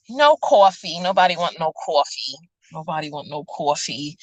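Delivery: New York accent. Real, not acted. Vlogger muttering about coffee, in a New York accent. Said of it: "my New York accent, this, the coffee and stuff".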